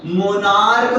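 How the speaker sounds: मोनार्क with CH sounded as K; pronunciation of monarch. Shown as a demonstration. Teacher telling the class how it's said, मोनार्क with K. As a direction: end मोनार्क on a hard K. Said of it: "इसको actually बोलते हैं".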